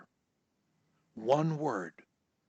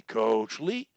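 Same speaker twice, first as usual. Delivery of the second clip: lower register; 5 semitones lower than usual. Shown as a demonstration. Coach shows the stutterer a low register, pitched down. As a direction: sink Coach Lee below your usual pitch. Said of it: "When I come out of my voice register".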